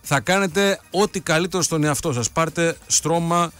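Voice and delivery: upbeat sales pitch read over music; cheerful live-read advertisement; radio ad read. Acted. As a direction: sell the mattresses like a live radio spot. Host reads a mattress ad.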